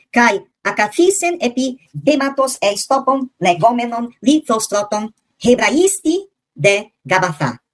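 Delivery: careful, measured read of the Greek verse; teacher reading the Greek original aloud; reading Koine Greek. Shown as a demonstration. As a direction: sound out the original Greek text. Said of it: "em grego".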